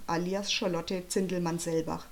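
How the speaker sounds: a touch of self-important diva; vain film star. Acted. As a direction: announce your name like a conceited star. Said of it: "wie ein eitler Filmstar". (leicht eitel, wie ein Filmstar)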